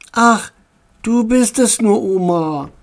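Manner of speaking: put-on mildly let-down child, sinking at the end; disappointed. A narrator's reading. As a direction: start high, drop in disappointment. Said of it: "sagte Tommy enttäuscht".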